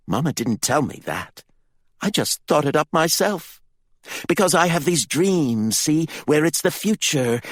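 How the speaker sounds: high, loud, gleeful bragging; a spoiled boy bragging of wickedness; boastful boy. A narrator's reading. Jalo brags to Candy about becoming a king-killer, gleeful and high.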